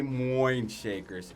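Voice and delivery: "Moin Shakers" with a drawn-out oy in Moin; mimicked game mispronunciation. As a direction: say "Moin" slowly, rhyming with coin. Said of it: "whenever they say".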